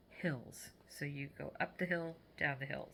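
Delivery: fighting off a sneeze; holding back a sneeze. Real, not acted. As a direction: talk while stifling a sneeze. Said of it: "Sorry, I'm trying not to sneeze".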